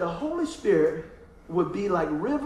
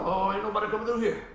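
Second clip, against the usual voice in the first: grunting ground. Pretend. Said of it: "ground's out there grunting going".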